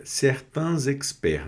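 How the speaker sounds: "certains" linked to "experts" with a z; liaison in "certains experts". Shown as a demonstration. Teacher showing French learners the linking, liaison in "certains experts". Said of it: "uma liaison aqui".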